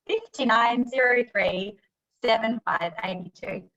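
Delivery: slow, laughing bingo caller call-out. Pretend. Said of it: "I'm a bit like a bingo caller".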